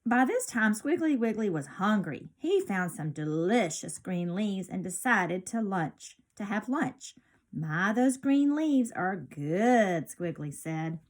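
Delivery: lively storybook read-aloud; bright picture-book narration; reading to children. A narrator's reading. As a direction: read it like storytime for little kids.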